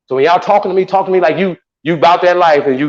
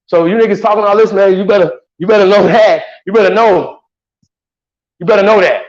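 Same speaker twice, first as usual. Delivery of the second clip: louder, heated warning hammered at them; angry threat; 4 semitones higher, 4 dB louder than usual. Real, not acted. Streamer lashing out at people talking tough online, angry and loud. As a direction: jab every you better like a threat.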